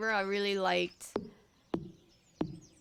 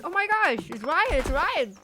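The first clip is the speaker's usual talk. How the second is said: excited quote; 5 semitones higher than usual. Retold or imitated. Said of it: "Josh was like".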